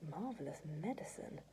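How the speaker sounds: soft, murmured aside; to himself. A narrator's reading. George admiring his medicine, to himself. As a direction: say it softly as a private thought. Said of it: "George told himself".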